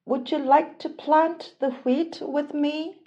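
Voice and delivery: high, hopeful hen. Acted. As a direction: hen asking her friends. Hen asks her friends.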